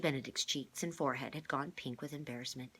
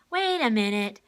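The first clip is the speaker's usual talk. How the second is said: put-on higher, louder eager girl; excited girl; 8 semitones higher, 15 dB louder than usual. A narrator's reading. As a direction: burst in, eager. Kate character voice.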